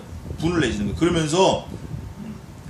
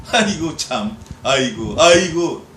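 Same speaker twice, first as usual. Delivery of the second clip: scornful laugh; 5 dB louder, slower than usual. Shown as a demonstration. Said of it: "이렇게 하는 거라고".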